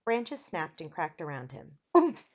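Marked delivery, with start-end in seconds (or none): 2.0-2.2 short "oomph" on landing; grunt of impact. A narrator's reading. Eric hits the ground, short pained grunt. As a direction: wind knocked out by a fall. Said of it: "Eric moaned".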